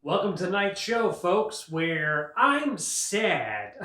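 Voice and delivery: hammed-up gloomy late-night host, dragging the last words very slowly; mock somber host. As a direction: play a TV host who is mockingly depressed. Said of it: "monologues were just, like, very somber".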